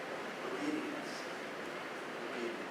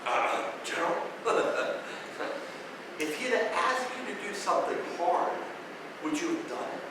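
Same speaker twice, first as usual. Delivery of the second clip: timid enlisted man; 3 semitones higher, 7 dB quieter than usual. Retold or imitated. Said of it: "a senior enlisted guy going".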